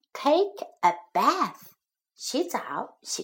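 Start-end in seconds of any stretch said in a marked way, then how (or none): 0.1-1.7 unvoiced whispered drill phrase; whispering. Shown as a demonstration. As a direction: breathe the words out with no voice. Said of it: "teacher repeats drill phrase".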